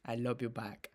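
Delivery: softly imitating a Latino accent; lightly mocking Latino accent. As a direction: echo her put-on Latino accent, a little under the breath. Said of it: "revela un nuevo acento latino".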